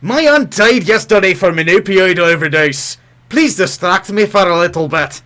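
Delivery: a light hint of an Irish accent, slowed a little. Co-host reading a sad tweet in a faint Irish accent. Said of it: "read Kurt Coble as an Irishman".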